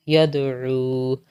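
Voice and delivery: slow, chanted letter-by-letter spelling; Qaida drill recitation. Shown as a demonstration. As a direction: spell each syllable out, then join and stop. (قاعدہ کی ہجے والی قراءت)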